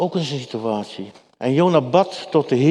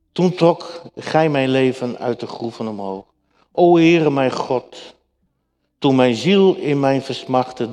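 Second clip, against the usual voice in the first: measured, slightly raised Bible reading; scripture reading. Acted. Preacher reads Jonah's prayer to the congregation, solemn reading.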